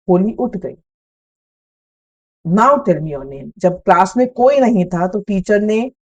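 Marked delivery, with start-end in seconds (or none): 2.5-3.5 soothing teacher. Retold or imitated. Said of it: "the teacher's voice was so soft and soothing".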